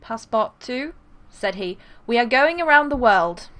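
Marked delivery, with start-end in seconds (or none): 0.0-0.9 put-on British accent. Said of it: "He's British". 2.1-3.5 lightly British gentleman; a hint of a proper English master; attempted British accent, lightly done. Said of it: "How, how, how do you British?".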